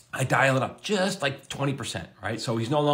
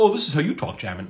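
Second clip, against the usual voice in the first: mock impression, pitched up on the opening; teasing imitation; 5 semitones higher than usual. Showrunners tease the writer with his own voice, mock impression. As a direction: lightly mimic a colleague back at him. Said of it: "they sometimes give it back to me".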